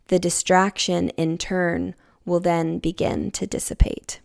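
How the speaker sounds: measured, unhurried reading of a written message. Acted. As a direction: read it aloud like a passage you wrote. Reads her channeled message aloud.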